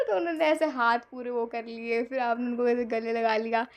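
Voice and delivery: normal talking voice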